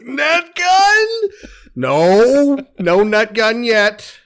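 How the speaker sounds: very high, whiny begging; high squeaky voice. Retold or imitated. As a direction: squeal it like a kid. Begging guy then refusal retold.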